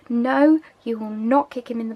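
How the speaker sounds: stern, firm refusal with a loud clipped "No"; a mock-stern telling-off; serious. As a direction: lay down the law, dead serious. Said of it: "You sound so serious".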